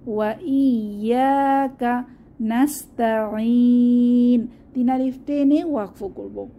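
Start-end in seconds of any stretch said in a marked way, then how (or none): 0.1-4.5 slow chanted verse; tajweed reading; Quran recitation. Shown as a demonstration. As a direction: recite slowly. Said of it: "এখানেও same ভাবে".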